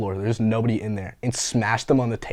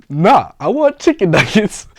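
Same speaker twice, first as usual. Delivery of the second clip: louder, higher, slower "Nah, I want chicken nuggets"; exasperated repeat; 9 semitones higher, 9 dB louder, slower than usual. Retold or imitated. Tourist repeating order to cashier, exasperated and louder. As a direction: insist again, fed up and louder. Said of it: "when I tell you I got pissed".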